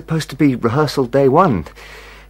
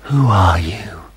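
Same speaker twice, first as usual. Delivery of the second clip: shout; 6 semitones lower, 4 dB louder, slower than usual. Acted. Shouting after vanished figure.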